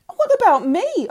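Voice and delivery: very high, loud outraged shriek. A narrator's reading. Girl protesting to her family, shrieking. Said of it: "I shrieked".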